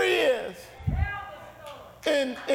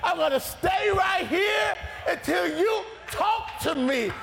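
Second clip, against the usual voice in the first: persistent prayer; 4 semitones higher than usual. Pretend. Believer refusing to quit praying, rising determined cry. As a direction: vow you will not leave until He answers. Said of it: "you gotta get to the place where you say".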